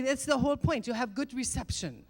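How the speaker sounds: insistent mock Middle Eastern husband; lightly imitated Middle Eastern accent, making a point. Husband explains the dish to wife, mock Middle Eastern accent. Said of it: "I'm doing a Middle Eastern accent".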